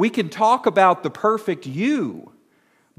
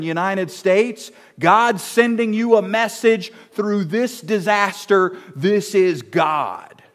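imitating a TV preacher, loud and insistent; mock TV preacher; 3 semitones higher, 3 dB louder than usual. Mocking preachers on America's airwaves, a touch of preacher bluster. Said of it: "get on America's airwaves and say".

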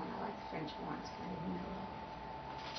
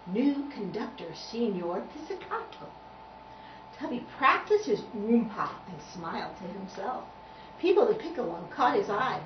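put-on lively storybook reading to a child; measured children's story narration. A narrator's reading. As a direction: read it like a picture book, pausing between phrases.

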